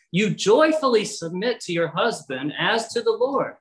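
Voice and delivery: "joyfully" lifted out with clear emphasis; stress on "joyfully". Real, not acted. Preacher repeating his point to mothers, stress on "joyfully". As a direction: punch the word "joyfully". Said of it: "I emphasize that word joyfully".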